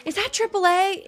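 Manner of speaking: put-on high, lilting Irish accent; a strong Irish accent, asking through a door; heavy Irish accent. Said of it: "in, like, a really heavy Irish accent".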